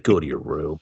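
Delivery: lightly voiced let-down dad, low and subdued; disappointed dad. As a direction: send the kid off with weary disappointment. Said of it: "the disappointed dad".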